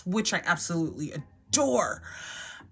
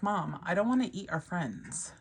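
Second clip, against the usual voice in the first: whispered; 5 dB quieter than usual. Retold or imitated. Daughter voiced in story.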